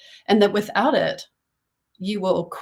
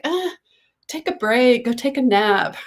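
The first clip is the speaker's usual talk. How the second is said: coaxing inner voice; 4 semitones higher, 3 dB louder than usual. Retold or imitated. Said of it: "it's like".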